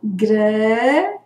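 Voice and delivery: "Grampo" in two well-separated beats; syllable by syllable. Shown as a demonstration. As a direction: hold the first syllable of "Grampo" and let it rise, then pause. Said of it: "eu emiti a voz gran". ("Grampo" bem separado em duas sílabas)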